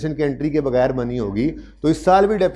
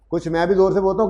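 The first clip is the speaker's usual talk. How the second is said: speaking louder; 5 semitones higher, faster than usual. Shown as a demonstration. Teacher repeating louder for students with bad audio. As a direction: repeat it higher, with more push.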